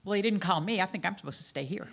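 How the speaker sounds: lightly sassy retold teen back-talk; sassy thirteen-year-old. Thirteen-year-old balking at the family's move, mildly sassy. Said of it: "with all the sass of a thirteen-year-old".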